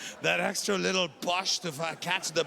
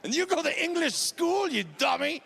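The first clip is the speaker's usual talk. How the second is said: higher, jeering put-down; mocking taunt; 9 semitones higher than usual. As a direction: rub it in like a bratty sibling. Dad keeps taunting daughter.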